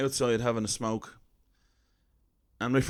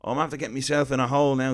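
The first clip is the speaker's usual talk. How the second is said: mock flustered, rushed and tumbling; a light imitation of a jumbled old fella backpedalling; flustered old man; 3 semitones higher than usual. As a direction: hurry the words like he's caught out. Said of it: "He was getting all jumbled".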